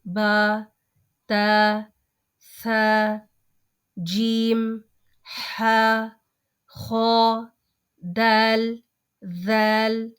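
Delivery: letters said with an open "aa" sound; correct Arabic letter names. Shown as a demonstration. Teacher recites the letters correctly for students, with the open "aa". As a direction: recite बा, ता, सा with a full "aa". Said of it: "आ वाली sound में बदलना है".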